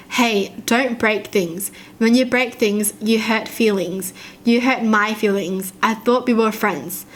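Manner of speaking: put-on slow, even robotic kid voice. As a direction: say it like a robot child. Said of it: "Why does he sound like a robot".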